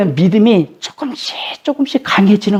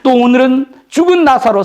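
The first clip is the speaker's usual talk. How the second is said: usual speaking voice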